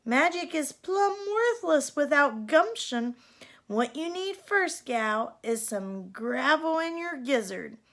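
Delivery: put-on a tough old gal telling her to shape up; scolding cowgirl godmother. Godmother lecturing Cindy.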